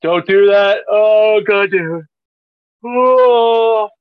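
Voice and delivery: loud, high, mock-outraged protest; loud outcry. Real, not acted. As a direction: cry out at the yawn in loud dismay. Reacting to a contagious yawn.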